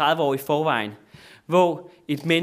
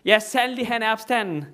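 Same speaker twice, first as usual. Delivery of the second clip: congregation calling back; 6 semitones higher than usual. Retold or imitated. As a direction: shout the reply back to the priests. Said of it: "råber de igen".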